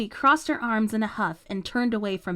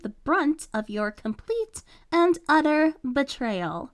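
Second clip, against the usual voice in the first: fake positivity; 3 semitones higher than usual. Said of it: "Completely dropping the faux positivity".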